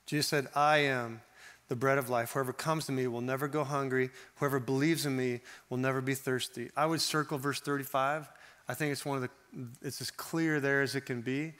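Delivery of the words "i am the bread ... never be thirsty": gentle rereading. Shown as a demonstration. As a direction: read it again tenderly, as an invitation. Verse reread more gently.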